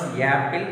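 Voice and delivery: "apple" with y before the vowel; wrong ya sound. Shown as a demonstration. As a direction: turn "apple" into "yapple". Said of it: "a will come".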